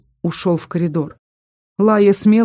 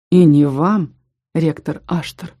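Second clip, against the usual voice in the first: ordinary delivery, nothing marked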